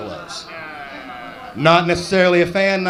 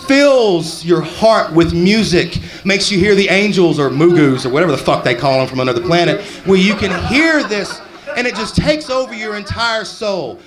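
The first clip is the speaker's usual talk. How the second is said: hammed-up awe; 4 semitones higher than usual. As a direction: sell the wonder like a showman. Acting awestruck alien tour guide.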